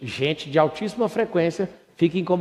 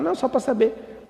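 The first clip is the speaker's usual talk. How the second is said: mock evasive answer; 8 semitones higher than usual. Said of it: "A pessoa fala".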